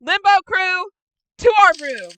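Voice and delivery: loud, high, angry command; stern summons. Acted. Kira summoning the Limbo crew for a lecture, loud stern command. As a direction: order them off like a furious leader.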